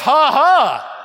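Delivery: a hollow little ha-ha at yourself; bitter laugh. Retold or imitated. Laughing at himself over the fake job, hollow ha-ha. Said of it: "I said to myself".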